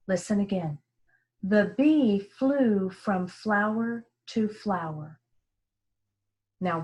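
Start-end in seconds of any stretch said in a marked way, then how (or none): 1.4-5.2 smooth, slow and even, not choppy; fluent reading. Shown as a demonstration. Teacher modeling fluent reading for pupils, smooth and slow. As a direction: read it smoothly, not like a robot. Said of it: "I want to try to read it fluently".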